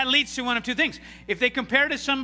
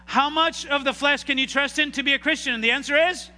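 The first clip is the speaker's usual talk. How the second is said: higher, pushed call to the congregation; louder rousing question; 5 semitones higher, 3 dB louder than usual. Shown as a demonstration. Preacher rousing a sleepy congregation, louder and higher. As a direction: rouse the crowd to answer. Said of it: "you're keeping me awake".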